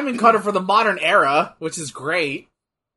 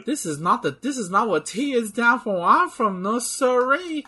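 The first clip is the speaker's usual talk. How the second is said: stereotypical Texan; 4 semitones higher than usual. Pretend. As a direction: ham up a Texan accent. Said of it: "I will enter full stereotypical Texan".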